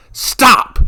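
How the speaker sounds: very high, loud shriek. A narrator's reading. Revna shrieks at the monk to stop. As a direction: shriek to make him stop. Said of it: "she shrieked".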